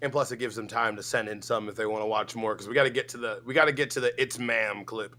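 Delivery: ordinary talk, nothing marked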